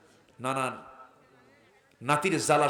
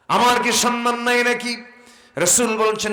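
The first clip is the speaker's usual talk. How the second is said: full force preaching; 10 semitones higher, 9 dB louder than usual. Real, not acted. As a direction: sing it out to the congregation. (উচ্চস্বরে ওয়াজের সুর)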